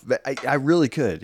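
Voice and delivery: ordinary talk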